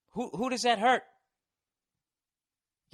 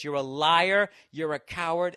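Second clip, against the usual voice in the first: mock heckler yell; 5 dB louder than usual. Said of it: "the second time he goes".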